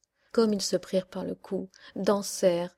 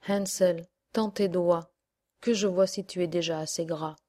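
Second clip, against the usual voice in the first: witch voice. Acted. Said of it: "la vieille ... disait".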